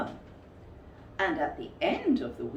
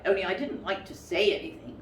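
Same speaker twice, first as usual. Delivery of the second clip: hurried aside; faster than usual. Acted.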